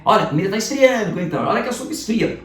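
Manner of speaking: mock-scold like a mum at dinner; nagging mum. Teacher imitating a mother telling a child the food is getting cold. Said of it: "Ó, coisa de mãe".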